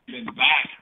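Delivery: breaking up over a Bluetooth phone line; phone line cutting out. Real, not acted. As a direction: voice dropping in and out on the phone. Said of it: "you're on Bluetooth or something".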